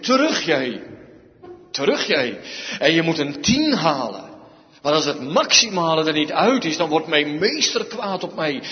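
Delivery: put-on loud, stern rebuke to a lazy child; firm, loud scolding of a child; stern slave scolding. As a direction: bark it like a fearful servant enforcing homework.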